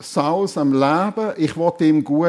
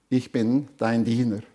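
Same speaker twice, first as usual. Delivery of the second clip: humble; 7 semitones lower, 6 dB quieter than usual. Acted. Humble servant answers the king.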